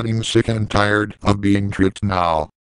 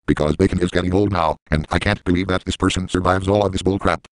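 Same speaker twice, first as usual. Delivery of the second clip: spaz rant; 4 semitones lower, faster than usual. Acted. Second spaz after bacon tricks.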